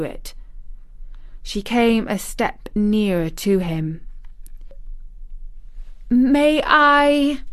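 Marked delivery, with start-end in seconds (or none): 6.1-7.4 put-on high, loud little girl; eager, anxious. A narrator's reading. Mary asking her guardian for permission, anxious and eager. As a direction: ask it high and hopeful.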